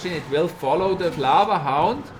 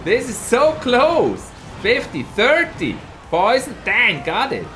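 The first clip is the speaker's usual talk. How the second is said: much higher and louder, slow gasping alarm; excited shout; 7 semitones higher, 5 dB louder, slower than usual. Real, not acted. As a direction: shout as the tower nearly falls. Tower nearly falls, close fight.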